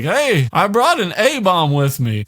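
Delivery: high, slow, odd voice; lightly creepy boast; eerie proud voice. Retold or imitated. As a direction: announce the bomb like a gift. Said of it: "he's like".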